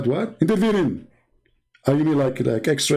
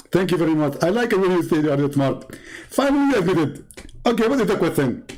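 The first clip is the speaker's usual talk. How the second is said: pitched-up mock South Asian lecturer; Zakir Naik impression; 4 semitones lower than usual. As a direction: play a smug preacher lecturing. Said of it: "Uh, uh, Zakir".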